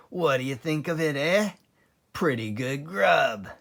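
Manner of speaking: lightly voiced, quick and pleased; a fox bragging to friends; sly Mister Fox. A narrator's reading. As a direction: fox boasting to hungry animals.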